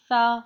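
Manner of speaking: سا lisped gently, tongue tip lightly touching upper teeth; very soft saa. Shown as a demonstration. Teacher showing tongue on upper teeth, soft سا. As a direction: let سا out as a soft "th". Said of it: "بہت ہی نرمی سے".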